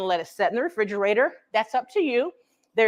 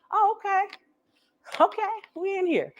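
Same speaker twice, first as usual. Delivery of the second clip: eggs voiced; 7 semitones higher than usual.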